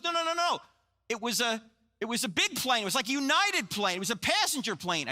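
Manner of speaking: high, urgent correction of a friend; a pastor blurting what he just saw; excited pastor. Retold or imitated. Pastor on the phone correcting his friend, high urgent excitement.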